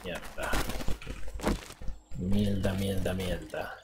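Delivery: muttered curses; cursing under breath. Real, not acted. Swearing at a game setback.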